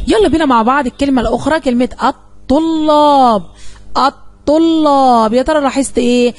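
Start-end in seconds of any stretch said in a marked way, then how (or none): 1.6-5.3 الطلاب said very slowly, leaning on the doubled ط and ل; doubled letters stressed. Shown as a demonstration. Teacher showing the class the shadda, slow stressed doubling. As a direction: hold each doubled consonant in الطلاب. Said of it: "لاحظت إن الطاء نطقتها مرتين".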